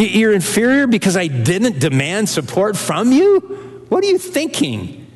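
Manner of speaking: mock disbelief, rising sharply at the end; incredulous sarcasm. Paul scolding the Corinthians, incredulous. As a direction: scoff at the absurd complaint. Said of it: "You see, it's sarcasm".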